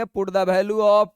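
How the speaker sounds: very slow English dictation; teacher dictating English wording slowly. Shown as a demonstration. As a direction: spell it out slowly for English-medium students. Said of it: "English वाले बच्चा लिख लेंगे".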